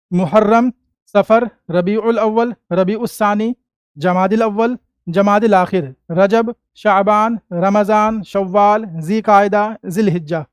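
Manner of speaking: evenly paced list recital for repeating; say-along recitation. Shown as a demonstration. Teacher has pupils say the months along, measured recitation. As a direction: recite the month names for a class to join in. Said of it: "एक बार मेरे साथ बोलो".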